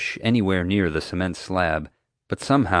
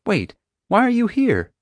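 high-pitched, puzzled question; taken aback; 4 dB louder than usual. A narrator's reading. Mom learning of an interrogation, taken aback. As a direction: ask it in rising bewilderment. Mom startled by guard's purpose.

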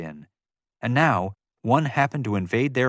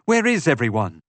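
louder, insistent question; disoriented, raised voice; startled demand; 2 semitones higher, 5 dB louder than usual. A narrator's reading. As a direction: demand an answer, just jolted awake. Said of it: "she demanded".

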